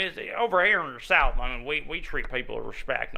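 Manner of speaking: mock Southern hillbilly accent. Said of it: "he's putting on a hillbilly accent".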